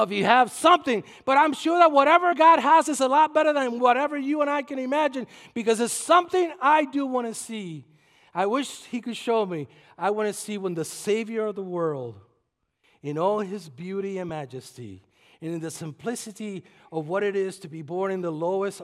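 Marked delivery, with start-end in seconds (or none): none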